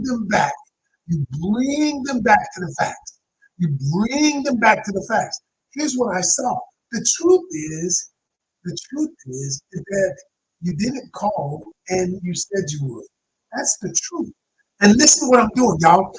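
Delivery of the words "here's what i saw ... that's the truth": calm, measured. Shown as a demonstration. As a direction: calmly lay out the facts. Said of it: "I'm not raising my voice".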